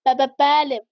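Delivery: stuttered, startled answer; nervous stutter. A narrator's reading. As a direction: stammer on the first sound of بله. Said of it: "چند سکتهٔ ریز و درشت زده بود".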